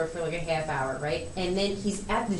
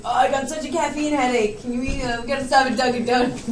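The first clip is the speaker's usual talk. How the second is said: lightly mocked Dad, louder and higher; imitating Dad's plea; 4 semitones higher, 4 dB louder than usual. Daughter retelling Dad's excuse in the car, mock pleading. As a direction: play up Dad's feigned headache plea.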